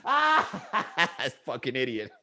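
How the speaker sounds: quiet laughing mutter; giggling to himself. Retold or imitated. Laughing quietly to himself after the lady walks off. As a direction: giggle under your breath at her. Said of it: "I actually giggled to myself".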